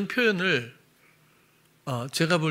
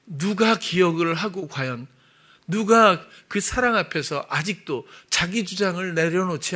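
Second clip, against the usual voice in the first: raised, emphatic sermon voice; insistent preacher's delivery; earnest preaching; 3 semitones higher, 3 dB louder than usual. Real, not acted. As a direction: press the point home to the congregation.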